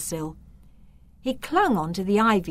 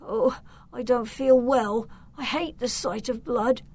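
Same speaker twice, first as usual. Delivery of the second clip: higher, mildly queasy voice; faint murmur; 5 semitones higher than usual. A narrator's reading. Victor sees blood on Filbert's face, queasily murmuring. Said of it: "he murmured".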